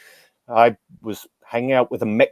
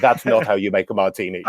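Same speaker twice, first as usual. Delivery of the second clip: laughing; 4 semitones lower than usual. Retold or imitated. Rescuer scolds in joke punchline.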